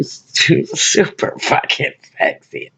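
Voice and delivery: slow, voiceless swoon. Real, not acted. Describing the crush leaning on the wall, swooning. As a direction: draw it out, losing the voice in admiration. Swooning over the man's looks.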